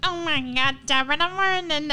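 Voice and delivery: high, put-on stage-Irish accent; Americans mimicking Irish. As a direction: gush in a fake Irish lilt. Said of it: "And they're like".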